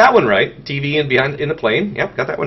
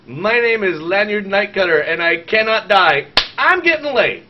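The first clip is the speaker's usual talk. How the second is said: mock bragging pickup line; 5 semitones higher, 3 dB louder than usual. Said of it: "I say".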